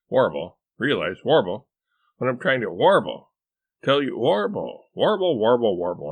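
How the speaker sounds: loud, repeated interjections; insistent interrupting. A narrator's reading. Wife butting into husband's explanation, insistent. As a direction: keep butting in, loud and high. Wife's interjections, he cuts them off.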